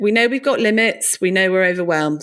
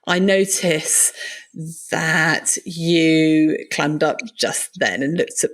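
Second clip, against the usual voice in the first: slow, careful, measured phrasing; non-judgmental; 2 semitones lower, much slower than usual. Shown as a demonstration. Trying to tell someone they seem upset, non-judgmental. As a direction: pick each word slowly and tactfully. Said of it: "say that in a non-judgmental way".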